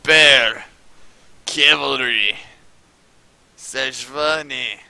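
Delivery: put-on loud, high, drawn-out Russian accent; Russian announcer impersonation. Imitating the guy who announced it in Moscow, big Russian accent. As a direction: belt out each word like a Russian announcer. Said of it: "that's my best Russian impersonation".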